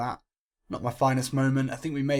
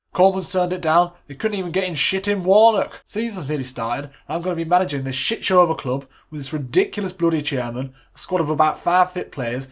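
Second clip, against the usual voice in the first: panicked assistant; 6 dB louder than usual. Acted. Panicked assistant pleading with boss.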